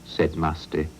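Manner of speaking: a stubborn farmer refusing to let cars cross his land; Farmer Oatfield. Acted.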